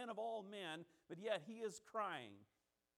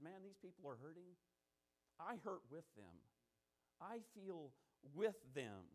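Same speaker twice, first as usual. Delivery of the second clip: soft, low, heartfelt empathy; quiet sympathy; 4 semitones lower, 6 dB quieter than usual. Acted. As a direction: gently share in their pain, acted. Voices Jesus sharing the mourners' grief.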